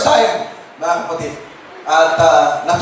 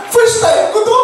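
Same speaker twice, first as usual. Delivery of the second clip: much higher, laughing squeal of joy; imitating delighted wife. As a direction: burst out like she's never had flowers before. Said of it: "Sabi niya". (ginagaya ang tuwang-tuwang misis, mataas at tumatawa)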